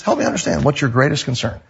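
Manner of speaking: calm, unemotional question. Shown as a demonstration. Pastor showing listeners how to defuse tension, calm. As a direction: ask it evenly, a little softly. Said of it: "Don't get upset. Don't get emotional".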